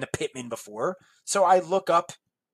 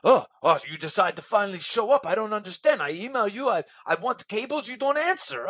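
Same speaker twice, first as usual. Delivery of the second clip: borderline furious. Retold or imitated. Buyer confronting the late seller, borderline furious. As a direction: imitate an angry buyer complaining. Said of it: "borderline furious. He's like".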